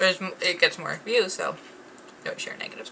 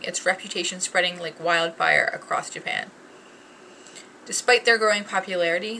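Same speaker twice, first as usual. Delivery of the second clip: ad read. Acted. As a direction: read it like a polished ad. Reads product description card.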